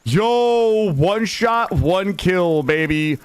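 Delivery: high, loud victory yell; hype celebration. Real, not acted. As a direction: cheer the one-shot kill. Celebrating a kill.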